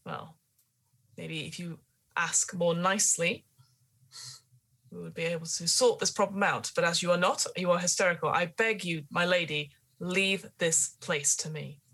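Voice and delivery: lightly voiced stern old gardener; calm the hysterical lady firmly. GM voicing gardener in scene.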